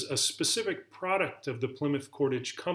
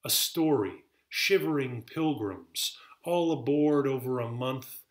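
poetry reading. Acted. Poet laureate reads Plymouth Cordage to listeners, measured poetry reading. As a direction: recite it phrase by phrase, letting each image land. Reads own poem aloud.

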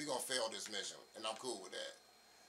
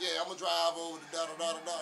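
retold boast; 7 semitones higher, 7 dB louder than usual. Retells own boast to friend.

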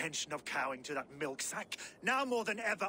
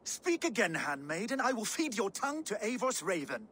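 menacing threat; 3 semitones higher than usual. Acted. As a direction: threaten the envoy to silence her. Guthrum threatens Saxon envoy.

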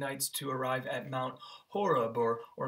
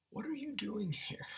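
whispered, tender, higher question; gentle whisper; 6 semitones higher, 9 dB quieter than usual. Acted. The Father gently asks the stuck Christian, whispered.

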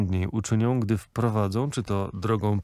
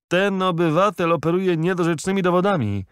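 higher, indignant protest; shouting; 6 semitones higher than usual. A narrator's reading. Alarmed agitator defends himself to crowd, shouting. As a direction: cry out in defence. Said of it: "więc jął krzyczeć".

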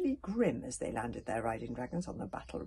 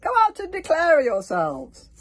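big booming call, much higher and louder; shouting; 17 dB louder than usual. A narrator's reading. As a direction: bellow it through the empty halls. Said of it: "shouted Thuggery the Meathead".

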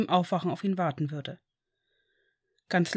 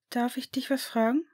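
put-on higher, hesitant child's voice, stammering in disbelief; disbelieving boy; 4 semitones higher than usual. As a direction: ask as if afraid to hope. Boy asks shyly. (höhere, zögernde Kinderstimme, ungläubig)

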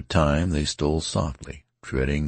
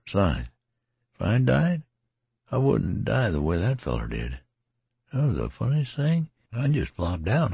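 feverish chatter, pitched higher; a dying man joking too brightly; rambling, higher folksy soldier voice; higher rambling tattered soldier; 8 semitones higher than usual. Acted.

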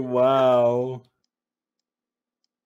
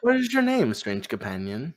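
Baymax voice; 2 semitones lower than usual. Retold or imitated. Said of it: "You didn't know I could do Baymax's voice?".

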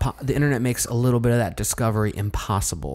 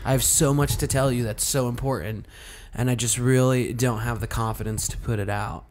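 laid-back surfer dude voice. Pretend. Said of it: "I sound like a surfer".

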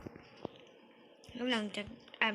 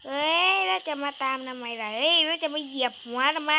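louder protest at her friend; exasperated yell; 3 semitones higher, 6 dB louder than usual. Real, not acted. Player yelling at her friend for stepping on her head, exasperated.

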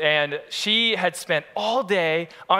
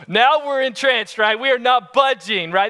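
dug in; 5 semitones higher, 6 dB louder than usual. Retold or imitated. Dug-in cupboard war.

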